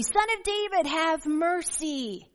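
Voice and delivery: high, loud cry, have mercy stretched slow. A narrator's reading. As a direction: plead at full voice over the crowd. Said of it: "he cried out even more loudly".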